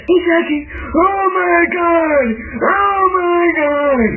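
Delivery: high, drawn-out panicked wail; slow, dragged-out distressed cries; frantic cry. Real, not acted. Attacked by a hacker.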